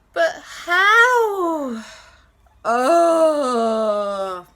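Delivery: loud ghost wail with a laugh; half laugh, half sob; laughing-crying ghost. Acted. Ghost despairs.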